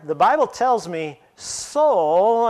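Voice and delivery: slow "so," rising at the end, left hanging; open-ended rise. Shown as a demonstration. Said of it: "when we put the comma in there".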